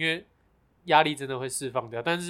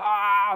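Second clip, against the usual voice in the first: held, raised-pitch "aah", mildly mimicking a yell; mock scream held on one open vowel; demonstrated yell; 6 semitones higher, 4 dB louder than usual. Shown as a demonstration. Showing friend how they yell while biking, mock yell. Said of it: "大叫这样".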